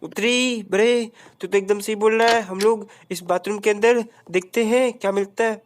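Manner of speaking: lightly voiced smug sidekick. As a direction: scold him like a smug friend. Answering character voice.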